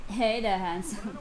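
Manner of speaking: sexy voice. Pretend. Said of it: "Can you do a sexy voice?".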